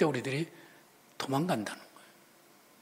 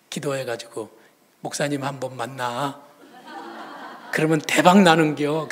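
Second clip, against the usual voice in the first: laughing; 5 semitones lower than usual. Retold or imitated. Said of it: "그러면서 이렇게 말해요".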